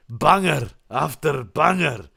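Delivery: slow, drawn-out Scottish catchphrase; Scottish accent. Retold or imitated. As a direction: put on a Scottish accent, stretching each word. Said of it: "I put the Scottish accent on".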